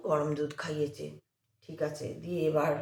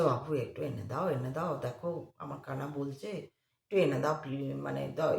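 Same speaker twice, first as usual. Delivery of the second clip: pleading; 2 semitones lower than usual. Retold or imitated. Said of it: "অনেকবার কাকুতি মিনতি".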